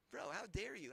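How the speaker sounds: firm, loud, pointed reproach; indignant repeat. Real, not acted. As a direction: still angry but grounded, pressing the point. Repeats the line, calmer.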